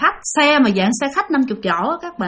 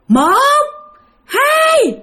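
high, drawn-out ghost count; ghostly count; 14 semitones higher, 4 dB louder than usual. Retold or imitated. Ghost counting before pushing the bus, high and drawn out. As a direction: count it out slow and eerie. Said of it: "ổng mới nghe đếm".

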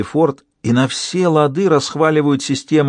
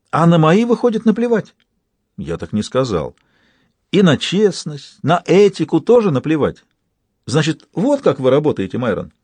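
angry accusation; 4 semitones higher than usual. Acted. Sophie confronts Myron angrily.

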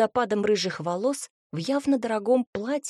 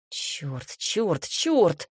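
cursing; 2 semitones lower, much slower than usual. A narrator's reading. Hero curses as enemies approach.

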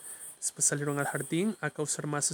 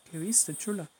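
honeyed but hiding anger; sweet-talking a child, anger underneath; a policeman's forced sweetness masking irritation; syrupy voice; 3 semitones higher, slower than usual. Acted. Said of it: "con una voz melosa".

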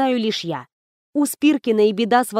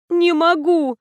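higher-pitched whine; whining; 6 semitones higher, slower than usual. Acted. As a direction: whine like a sick child. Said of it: "проныла я". (ноющим голосом)

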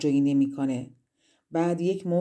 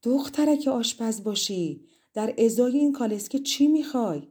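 calling out loud; 4 semitones higher than usual. Acted. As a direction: call out to her across the garden, dragging it out. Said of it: "با تمام وجود فریاد زد".

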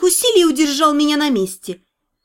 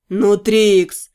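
put-on cutesy baby talk; 6 semitones lower than usual. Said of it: "противно засюсюкал Седрик".

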